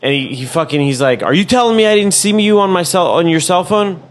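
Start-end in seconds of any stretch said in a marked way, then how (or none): 1.2-4.0 higher-pitched, incredulous challenge; indignant cop. Retold or imitated. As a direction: imitate an officer offended at being contradicted. Retold cop challenging the driver.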